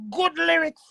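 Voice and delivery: whispered aside; hushed aside. Real, not acted. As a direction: breathe it out under your breath. Sudden aside in the rant.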